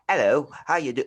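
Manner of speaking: mock proper English greeting; imitation English accent. Shown as a demonstration. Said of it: "anything that sounds proper in our ears".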